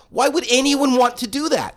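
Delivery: retold outrage at sharing a car; incredulous. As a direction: scoff at the very idea. Retold disbelief at Uber Pool.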